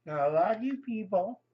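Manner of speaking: talking through a mouthful; words round a big bite; cheeks stuffed full. Real, not acted. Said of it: "talking with my mouth full".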